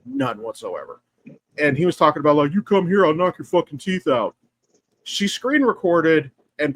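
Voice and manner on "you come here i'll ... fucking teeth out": mock belligerent threat, raised at the start; retold belligerent threat. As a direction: imitate a guy picking a fight, mildly heated. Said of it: "got really fucking belligerent".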